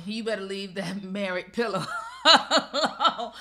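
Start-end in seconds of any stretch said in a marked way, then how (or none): 2.1-3.3 laughing. Real, not acted. Laughing at married pillow joke.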